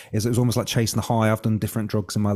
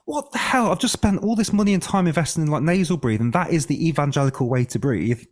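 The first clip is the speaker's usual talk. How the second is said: much higher, indignant disbelief; stunned outrage; 5 semitones higher than usual. Retold or imitated. Corrected by the mechanics lady, high shocked protest. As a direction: let the voice shoot up in shocked protest. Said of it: "And I was like".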